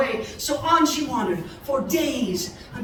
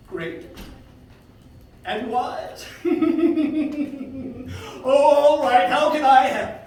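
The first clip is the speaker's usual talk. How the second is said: flattered eagle; 3 semitones higher, 7 dB louder, slower than usual. A narrator's reading. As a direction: let the flattery puff him up.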